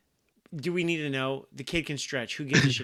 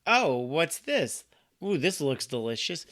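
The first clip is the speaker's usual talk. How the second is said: slow, drawn-out mock wonder; mock eager kid; 3 semitones higher, slower than usual. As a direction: ham up a curious kid finding a snack. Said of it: "him being like".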